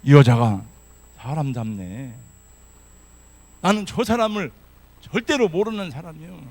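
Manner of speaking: loud, forceful denial; loud confident denial. Acted. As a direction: deny it boldly and loudly. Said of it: "더 큰 소리로 확신에 찬 어조로".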